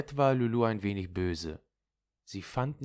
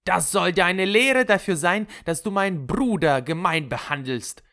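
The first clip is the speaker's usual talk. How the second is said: loud, high triumphant scolding; called through glass; 11 semitones higher, 7 dB louder than usual. Retold or imitated. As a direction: call out the lesson to him, raised and forceful. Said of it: "durch die Scheibe zugerufen". (laut und strafend zugerufen)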